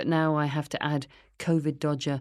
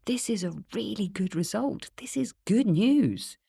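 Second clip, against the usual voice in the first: higher-pitched surgeon, drawing out the ending; surgeon's voice; 6 semitones higher than usual. A narrator's reading. Surgeon giving patient good results by phone, higher voice. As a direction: lift the pitch to press the point as the surgeon. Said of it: "My surgeon calls".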